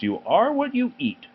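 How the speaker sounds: high, prim motto voice; prim teacher saying. A narrator's reading. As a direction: recite it like a preachy teacher.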